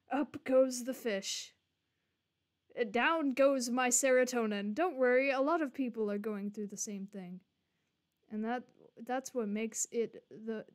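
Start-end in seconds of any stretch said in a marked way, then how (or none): 4.7-7.4 mock reassurance. Streamer parroting the game's comfort line back, mocking.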